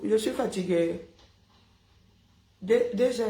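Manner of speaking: talking through a mouthful of water; words muffled by water; water held in mouth. Real, not acted. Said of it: "je parle avec l'eau dans la bouche".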